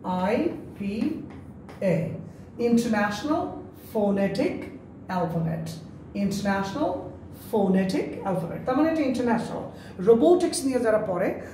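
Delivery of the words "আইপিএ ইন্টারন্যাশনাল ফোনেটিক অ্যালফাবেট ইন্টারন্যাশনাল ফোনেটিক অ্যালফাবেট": slow demo. Shown as a demonstration. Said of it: "এটাকে আমরা বলি আইপিএ".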